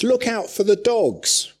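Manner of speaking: high, loud "Look out for the dogs"; loud alarmed warning. Retold or imitated. Preacher voicing Paul's warning about dogs, loud alarm.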